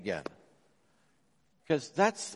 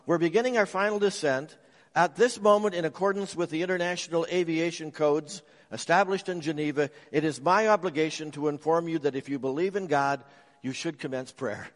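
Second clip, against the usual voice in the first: pilot's announcement; faster than usual. Retold or imitated. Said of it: "the pilot suddenly announced over the intercom".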